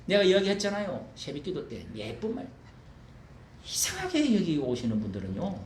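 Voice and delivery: ordinary talk, nothing marked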